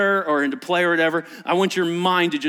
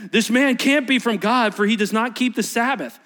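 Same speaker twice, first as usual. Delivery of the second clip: loud, high indignant verdict; Pharisee condemning; 6 semitones higher, 4 dB louder than usual. Acted. Pharisees denouncing Jesus over the Sabbath, loud. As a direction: pronounce it self-righteously.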